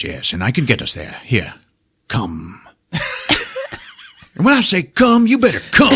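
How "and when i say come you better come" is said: high, laughing mock command; laughing wizard demand, pitched up; mock stern wizard. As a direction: bark the order through giggles.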